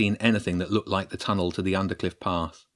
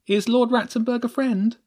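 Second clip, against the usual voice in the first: much higher, anxious little question; nervous question; 3 dB louder than usual. Acted. Millie nervously asks James while fleeing the rats. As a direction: ask it with a nervous catch. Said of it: "Millie asked nervously".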